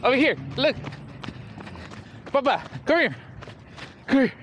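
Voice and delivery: calling out. Real, not acted. Calling the dog over.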